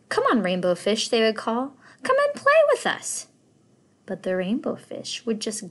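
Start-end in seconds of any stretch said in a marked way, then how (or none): 0.1-1.1 friendly call, a bit louder. Acted. Fish calling out to him. 2.0-3.3 much higher, louder playful call; sing-song invite from little fish. Acted. Fish calling out to play.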